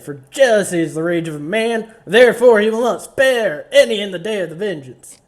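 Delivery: loud start, Southern preacher cadence; preacher verse recital. Acted. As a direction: boom out the scripture like a preacher. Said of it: "I'm changing verses".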